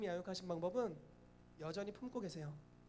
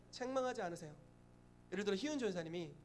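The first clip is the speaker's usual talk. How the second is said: ordinary delivery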